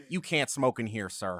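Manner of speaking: lightly exaggerated news-reporter voice; a hint of mock white-guy propriety; Dave Chappelle's white voice. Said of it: "Dave Chappelle's white voice".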